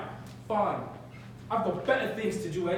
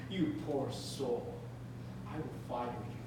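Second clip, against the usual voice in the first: contemptuous laugh; 4 semitones lower, 5 dB quieter than usual. Acted. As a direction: laugh him off as beneath you. Howard mocks Chimezie.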